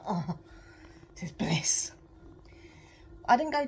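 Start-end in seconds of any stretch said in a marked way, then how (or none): 0.1-1.9 whispering bliss over stolen chocolate; blissful whisper. Retold or imitated. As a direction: melt into the words. Savouring chocolate.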